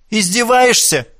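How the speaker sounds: высокий злой выкрик; зло бросить вопрос, прищурившись; angry retort. Acted. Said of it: "зло прищурились сёстры". (сёстры зло огрызаются на насмешку брата)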